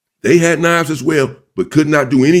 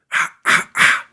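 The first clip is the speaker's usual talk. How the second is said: short, sharp "ah" sounds; imitated stabbing blows. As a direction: punch out three quick breathy bursts, imitating blows.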